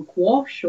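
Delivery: gouache said as "kwosh"; unsure stab at gouache with a k sound, "kwosh"; tentative pronunciation. Shown as a demonstration. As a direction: try gouache as one syllable, "kwosh". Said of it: "don't actually know how to pronounce".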